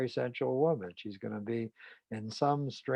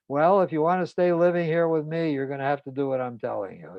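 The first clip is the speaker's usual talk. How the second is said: louder, pushy retold command; domineering ultimatum; 5 semitones higher, 7 dB louder than usual. Husband threatening his wife over the dig, louder and bossy. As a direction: lay down the law as the husband.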